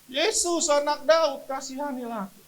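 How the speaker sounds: high, loud insistent cry. Retold or imitated. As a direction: shout the plea out over the scolding. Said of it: "Makin kencang dia".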